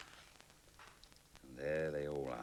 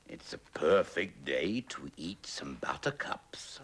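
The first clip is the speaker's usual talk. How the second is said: slow, louder lazy cow; 5 dB louder, slower than usual. Acted. Cow eating buttercups, slow and lazy. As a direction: draw it out like a grazing cow. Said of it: "thought the cow".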